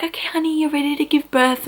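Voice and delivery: high, coaxing midwife voice; imitated midwife. Midwife telling honey she is ready, high imitated voice. Retold midwife addressing mother in labour.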